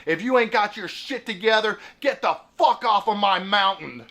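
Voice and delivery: imitated electrolarynx rebuke. Old man sending newcomers off his mountain, mock buzzer rebuke. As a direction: lay down the law as the buzzing old man. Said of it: "that guy looks at me and says".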